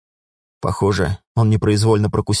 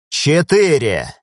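drawn-out count; 5 semitones higher, much slower than usual. A narrator's reading. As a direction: drag the number out menacingly. Countdown continues.

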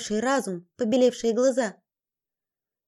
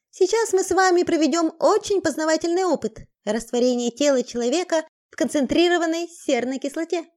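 gleeful sadistic headmistress; 4 semitones higher than usual. Acted. Cruel headmistress addressing captives.

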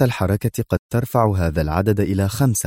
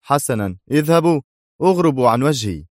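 indignant shout; 5 semitones higher than usual. A narrator's reading. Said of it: "يهتف في سخط".

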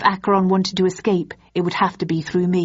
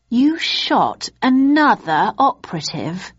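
higher, slow, disbelieving question; can't believe what she hears; stretched-out higher disbelief; incredulous; 5 semitones higher, 3 dB louder, slower than usual. A narrator's reading. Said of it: "with an incredulous tone".

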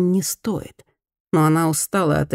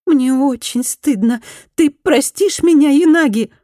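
pleading repentant woman; 10 semitones higher, 5 dB louder than usual. Acted. Former bully begs Fumi for forgiveness, loud high plea. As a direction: beg her to forgive, rising to a cry.

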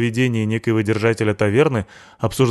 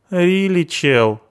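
hoge punkerstem die inzakt; deflated punk; 10 semitones higher, 3 dB louder, much slower than usual. Acted. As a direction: laat de punker leeglopen.

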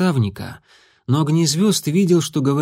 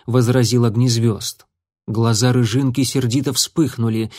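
usual speaking voice

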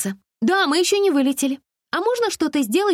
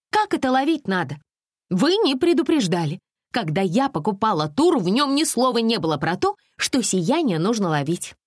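higher, huffy indignant complaints; making a scene; 7 semitones higher than usual. A narrator's reading. Alisa makes a phone scandal with the tour manager, huffy and high. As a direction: threaten like a spoiled customer. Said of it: "Алиса была готова к скандалу".

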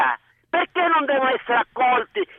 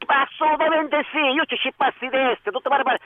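Sicilian dialect; 3 semitones higher than usual. Real, not acted. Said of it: "parla in siciliano".

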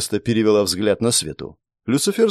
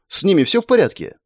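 higher, anxious question; worried; 8 semitones higher than usual. A narrator's reading. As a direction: ask with rising concern. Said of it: "обеспокоенно добавив". (обеспокоенно, выше)

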